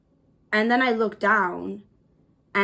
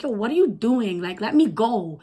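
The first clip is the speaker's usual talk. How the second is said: retold protest, louder on the question; alarmed protest; 5 dB louder than usual. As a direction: demand to be released, pitch swinging.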